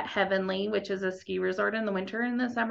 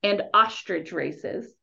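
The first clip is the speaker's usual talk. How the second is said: slow, careful, spelled-out delivery; slow it down so they catch every word; said slowly; slower than usual. Shown as a demonstration. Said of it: "I'm gonna say it slowly so you guys catch it".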